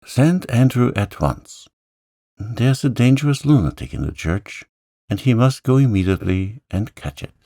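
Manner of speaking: a frightened lady giving orders in a rush; anxious wife. Acted.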